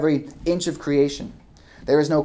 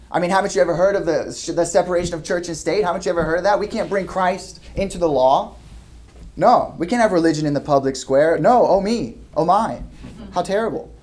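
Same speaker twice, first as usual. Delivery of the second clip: raised, sarcastic pretend-shocked voice; mock secularist outrage; 3 semitones higher than usual. Preacher mocking critics for his congregation, sarcastic pretend alarm. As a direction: parody the objector's fussy alarm.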